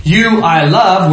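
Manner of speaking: slow, with "You" held and emphasized; stress on YOU. Shown as a demonstration. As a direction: hit "You", then ease into "I love". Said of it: "Where's the emphasis?".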